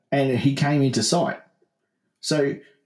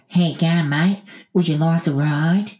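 higher-pitched mock woman driver; friendly driver's offer; 5 semitones higher than usual. Woman driver offering hitchhiker a lift, higher acted voice. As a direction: call out a casual offer, pitched up. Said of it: "'cause so she's gone".

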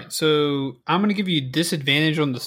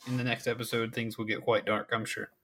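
ominous hush; 3 semitones lower, 10 dB quieter than usual. Acted. Ominous teaser of next episode.

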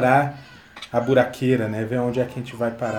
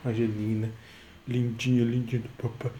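tender cooing; 6 dB quieter than usual. Real, not acted. Dad soothes crying baby daughter.

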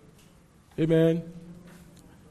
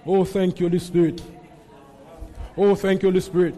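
prayer. Real, not acted. Leads prayer, slipping into tongues.

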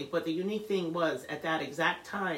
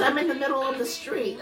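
high, raised imitation of a rattled daughter; flustered daughter; 9 semitones higher, 5 dB louder than usual. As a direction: cry it out helplessly, retelling. Retold panicked daughter on phone.

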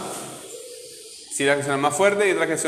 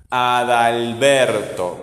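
very slow "Adalberto", weight on a long BER; stress on BER; 2 semitones lower, much slower than usual. Shown as a demonstration. Teacher repeating so pupil hears it, stress on BER in "Adalberto". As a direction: draw out "Adalberto" so BER stands out. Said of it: "¿Cuál suena fuerte?".

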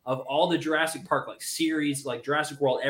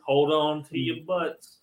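Sam Jackson line. Retold or imitated. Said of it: "Hold On to Your Butts by Sam Jackson".

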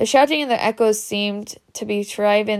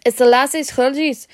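urgent realisation; 5 semitones higher, 4 dB louder than usual. A narrator's reading. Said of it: "Harry plunged".

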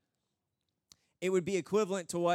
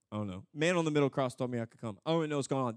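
lower, mumbled, run-together answer; bewildered thief; 5 semitones lower, much faster than usual. Acted. Thief explaining himself at heaven's gate, bewildered. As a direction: ramble on, clueless. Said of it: "The thief".

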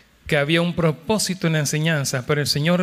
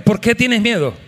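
louder; 4 semitones higher, 4 dB louder than usual. Shown as a demonstration. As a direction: repeat "¿Por qué tienes miedo?" louder, with a higher voice. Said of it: "Díselo más fuerte". (dilo más fuerte: "¿Por qué tienes miedo?")

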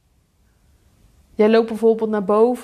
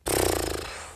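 annoyed puff; 8 dB quieter than usual. Acted. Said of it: "Of je wordt boos".

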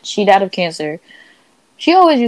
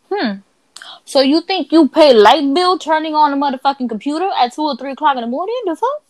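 mock scolding; 5 semitones higher than usual. Scolding the computer that turned on.

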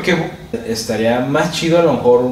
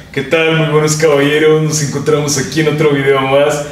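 exaggerated host intro. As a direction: ham up the channel greeting. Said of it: "también ahí te mamaste un poquillo". (saludo de presentador exagerado, en broma)

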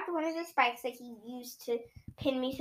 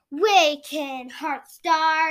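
loud summons; commanding call; 3 semitones higher, 6 dB louder, much slower than usual. Acted. Villain summoning the Hearth Star to wake, loudly. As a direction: call it out like a spell.

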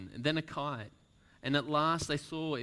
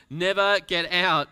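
wild, much louder, higher yell; 6 semitones higher, 13 dB louder than usual. Acted. Stranger yelling in despair on the deck. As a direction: hurl it out, half mad. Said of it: "he yelled".

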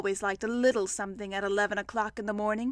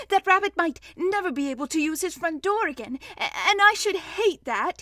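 higher, mildly upset voice; sniffing slightly; 6 semitones higher, 4 dB louder than usual. A narrator's reading. Pooh fearing for Rabbit's door, slightly tearful. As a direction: worry aloud, slightly tearful. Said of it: "sniffing slightly".

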